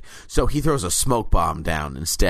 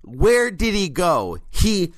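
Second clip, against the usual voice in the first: much higher, sarcastic wonder; mock amazement; 11 semitones higher, slower than usual. Real, not acted. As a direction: gush with fake astonishment.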